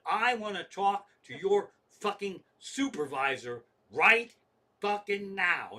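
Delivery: loud, emphatic retold ultimatum; irate customer escalating the call; angry demand. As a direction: demand the boss, punching each word.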